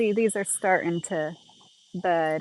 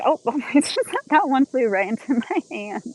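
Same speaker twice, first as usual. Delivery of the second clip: higher, louder startled laugh-talk; surprised delight; 6 semitones higher, 5 dB louder than usual. Real, not acted. Bee lands in the gardener's hand, surprised delighted exclaim.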